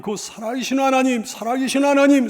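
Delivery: ringing, escalating stress on 살아계신 하나님; insistent emphasis. Acted. Preacher repeats psalmist's longing confession.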